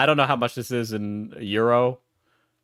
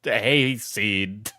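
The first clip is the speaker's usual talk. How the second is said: hammed-up British scolding; mock British. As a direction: imitate an outraged Brit, pitch jumping at the start. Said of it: "for the British in chat to be like".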